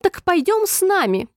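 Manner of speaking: very high shrill invitation; queen shrieking at Alice; squealing. A narrator's reading. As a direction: squeal it as an order. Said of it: "взвизгнула королева".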